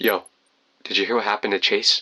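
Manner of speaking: secretive, hushed half-whisper, stage whisper. Retelling a friend leaning over in class: imitating a half-whisper. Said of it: "leans over to me and whispers".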